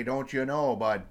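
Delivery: light cartoon Canadian accent, folksy tag question. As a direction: play up a jokey Canadian "Don't you know, bud?". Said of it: "the cartoon Canadian accent voice".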